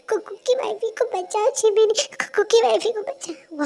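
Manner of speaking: put-on frantic babyish pleading; desperate plea. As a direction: beg them to save her. Husband begging help for wife.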